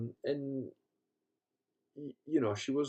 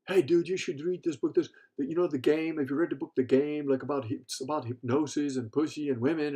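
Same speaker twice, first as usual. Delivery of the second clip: imitated pitch, higher and louder; lightly acted enthusiastic urging; eager recommendation; 3 semitones higher, 4 dB louder than usual. Club owner urging his student to read a book, eager.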